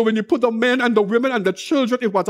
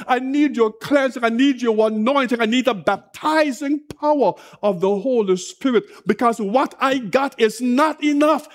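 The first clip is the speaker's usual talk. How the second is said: mildly raised, insistent pleading; fervent prayer. Acted. Preacher voicing what tears say to the Lord, fervent prayer. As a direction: plead with God in a preacher's urgent cadence. Acts out a fervent plea to God.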